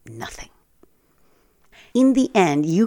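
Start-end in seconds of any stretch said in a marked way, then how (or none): 0.1-0.5 "nothing" dropped very soft and lower; "nothing" murmured very softly, lower. Real, not acted. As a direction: let "nothing" fall away almost unheard. Final soft repeat.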